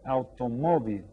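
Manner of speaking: automóvil with the weight on "mó"; teacher modelling automóvil, stressed on the third syllable; stress on accented syllable. Shown as a demonstration. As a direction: lean on MÓ in automóvil, then let it fall. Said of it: "again, we stress the accented syllable".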